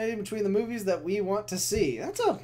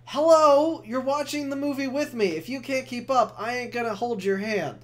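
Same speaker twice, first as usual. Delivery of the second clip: loud, higher "Hello" then settling into sarcasm; mock exasperated rant; 4 semitones higher, 3 dB louder than usual. Scolding people who ask what's happening, loud mock rant. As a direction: lecture a clueless movie buddy. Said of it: "It's like".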